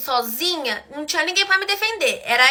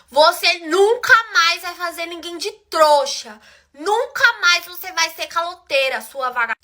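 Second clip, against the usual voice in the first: slow, drawn-out scolding, only slightly raised; retold yelling; 3 semitones higher than usual. Storyteller confronting the girl who owes her, retold yelling. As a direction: re-enact telling her off, stretching the words. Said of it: "comecei a gritar na cara dela".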